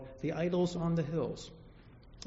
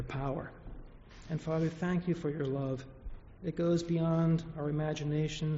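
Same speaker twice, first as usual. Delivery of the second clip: gentle, reverent prayer voice; 2 semitones lower than usual. Acted. Pastor leads congregation in closing prayer, reverent.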